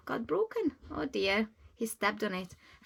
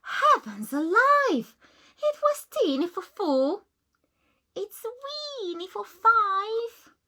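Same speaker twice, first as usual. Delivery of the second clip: put-on crying old lady; 11 semitones higher, 4 dB louder than usual. Old lady crying over her crammed house, distressed. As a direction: wail in despair. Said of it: "The little old lady cried".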